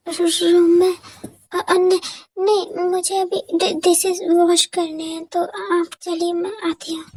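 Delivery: lightly voiced girl, stuttering and pleading; nervous stammering girl. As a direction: beg for mercy, tripping over the words. Jimin stalling nervously. (हल्की सी घबराई हुई लड़की, हकलाते हुए गिड़गिड़ाना)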